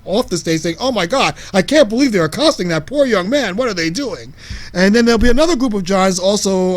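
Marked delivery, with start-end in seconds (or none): 0.8-4.3 mildly horrified onlooker, raised pitch; mock horror. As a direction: act lightly appalled for a bystander. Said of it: "will be pointing in horror".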